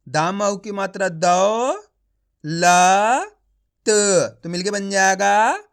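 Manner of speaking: दौ, ल, त said apart with pauses before blending; letter by letter. Shown as a demonstration. Teacher builds a word from its letters for pupils. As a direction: build दौलत one sound at a time. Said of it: "आप इस तरीके से एक ही अक्षर का उच्चारण करके पढ़ोगे".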